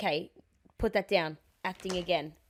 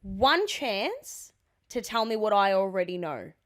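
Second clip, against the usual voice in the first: slow ultimatum; slower than usual. Acted. Acted ultimatum to cheating boyfriend.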